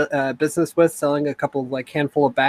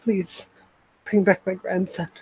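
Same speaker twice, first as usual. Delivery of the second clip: higher, small pleading voice; tearful plea; 4 semitones higher, 4 dB quieter, slower than usual. Acted. Grandmother begging adventurers for her grandson, tearful. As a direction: plead softly as if tearing up. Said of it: "she begins to tear up".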